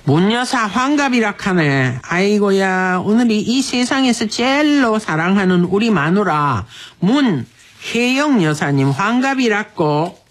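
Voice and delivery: unhurried, performed Busan-dialect letter reading. Acted. Radio host reads husband's letter for wife's sixtieth, Busan dialect.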